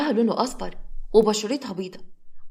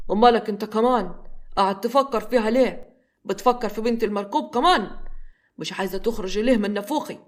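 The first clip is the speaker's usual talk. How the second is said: irritated. Acted. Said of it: "بغيظ".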